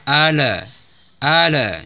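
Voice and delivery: ala with the lam bounced; wrong bounced lam. Shown as a demonstration. Teacher warns against bouncing the lam, wrong ala. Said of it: "Maka jangan dibaca".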